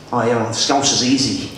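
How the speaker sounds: comic Scouse demonstration; Scouse accent. Shown as a demonstration. Comedian teaching the crowd how to do Scouse, Scouse accent. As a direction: explain it in a put-on Scouse accent. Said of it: "like Scouser".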